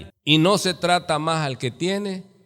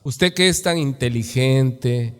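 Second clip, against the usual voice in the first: mock flattery; 4 semitones lower than usual. Shown as a demonstration. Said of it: "¿Qué es una palabra lisonjera".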